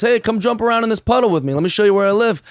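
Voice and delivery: lightly acted eager little frog; eager invitation. Mud frog inviting ocean frog to play, eagerly friendly.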